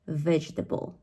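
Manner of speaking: vegetable stressed on VEG; first-syllable stress. Shown as a demonstration. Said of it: "it's at the very first syllable".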